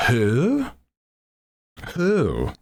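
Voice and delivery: high, swooping owl hoot; West Coast owl. Acted. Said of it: "my impression of an owl".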